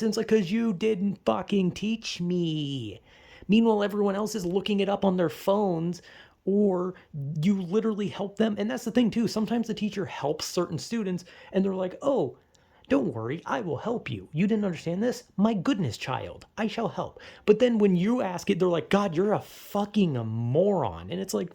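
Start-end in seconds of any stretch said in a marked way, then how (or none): 0.3-3.0 slow, drawn-out exasperated comeback; pointed, dragged-out protest; exasperated retort. Acted. Acted retort to blaming teacher. 12.0-17.2 lightly voiced, fussy helpful teacher; a hint of sing-song, exaggerated concern; mock doting teacher. Imitates teacher doting on favoured students. 18.9-21.1 slow, drawn-out disdain; exaggerated, dragging exasperation; mock scornful teacher. Imitates teacher scorning the student.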